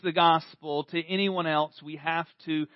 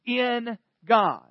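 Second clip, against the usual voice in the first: psalmist preaching hope; 4 semitones higher, 4 dB louder, much slower than usual. Retold or imitated. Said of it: "He says".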